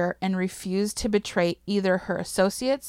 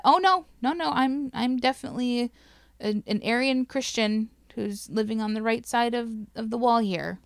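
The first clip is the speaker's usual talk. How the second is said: higher-pitched mock protest, easing down; protesting innocence; 3 semitones higher than usual. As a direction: insist a touch too earnestly. Children voiced proving false identity to questioners.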